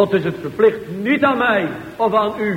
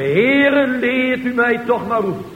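pleading prayer; 2 semitones higher than usual. Pretend. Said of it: "moet je maar zeggen".

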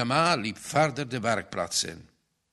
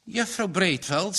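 gallant; 7 semitones higher than usual. A narrator's reading. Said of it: "terwijl hij galant boog".

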